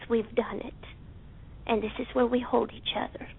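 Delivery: soft unvoiced whisper, held close. Real, not acted. A woman whispering tenderly to her online family. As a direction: hush it as if sharing something precious. Intimate group call, tender moment.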